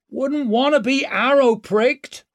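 high, loud call across a wall. A narrator's reading. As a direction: call it up to the walls. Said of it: "she called".

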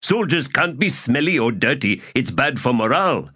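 high voice, a touch indignant; hurt innocence. Acted. Accused soldier defends clean fingers to an officer, hurt and innocent. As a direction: protest your innocence to a superior. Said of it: "displayed hurt and innocence, with just a touch of indignation".

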